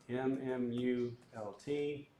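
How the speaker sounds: slow spelled-out letters; dictating. Shown as a demonstration. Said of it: "So I type in equals M mult".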